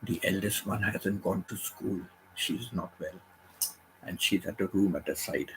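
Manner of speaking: whispering on the phone. Real, not acted. Daughter sick, must keep quiet.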